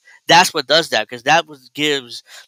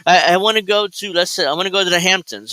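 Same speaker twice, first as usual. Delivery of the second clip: mock whiny wife; 4 semitones higher than usual. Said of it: "She's like".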